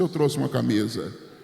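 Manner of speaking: a low, grave pastor's voice; pastor Tonhão's way. Retold or imitated. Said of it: "Ele disse". (imitando o pastor Tonhão com voz bem grave)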